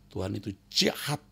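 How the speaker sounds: hushed, voiceless quote; whispered. Retold or imitated. Preacher retells grieving mother's words in a whisper. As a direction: whisper her bitter words.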